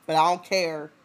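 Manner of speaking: hammed-up heroic vow; bold declaration. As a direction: declare it like a brave dad. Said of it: "He said".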